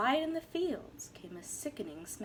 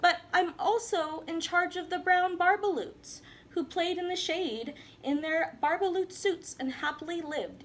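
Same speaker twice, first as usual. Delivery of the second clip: Lorax snapping; 4 semitones higher than usual. Acted. Lorax scolding the Once-ler at his office door, mildly stern. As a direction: snap out a scolding. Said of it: "He snapped".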